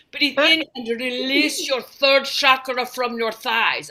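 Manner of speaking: slow, lightly put-on soothing guide; a mild parody of a meditation tape, drawn out. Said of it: "And then it's like".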